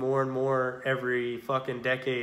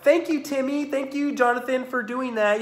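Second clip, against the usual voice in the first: much higher, sugary mock praise; mock doting parent; 10 semitones higher than usual. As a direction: parent thanking kid for chores, mocking high sweet voice. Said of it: "It's not like".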